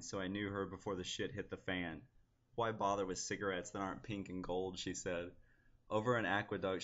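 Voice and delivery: understated poetry reading, close to everyday speech; poem reading. Acted. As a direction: read your poem out evenly, without drama. Reads own poem aloud.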